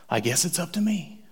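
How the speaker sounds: Jesus gently whispering "I guess it's up to me"; whispered. Retold or imitated. Jesus speaking softly to the woman in a whisper. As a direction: hush it like a private thought. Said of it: "he says".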